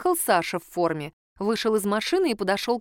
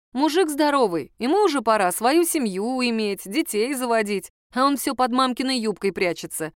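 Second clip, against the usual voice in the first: indignant; 3 semitones higher than usual. Acted. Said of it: "возмутилась я".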